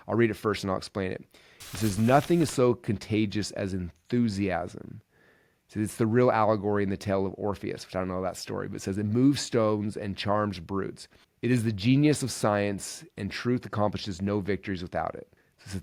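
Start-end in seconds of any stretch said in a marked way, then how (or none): 2.0-5.0 slow, deliberate reading of a quote; measured quotation reading; reading aloud. Real, not acted. 9.0-15.3 slow, deliberate reading of a quote; measured quotation reading; reading aloud. Real, not acted.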